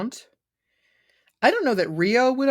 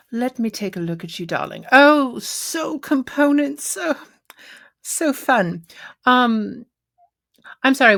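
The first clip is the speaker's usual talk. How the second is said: a hint of a camp shopkeeper, darting and flustered; flustered satyr. Satyr overwhelmed by the robot's quest, lightly camp. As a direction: fuss over the stranger like a camp satyr.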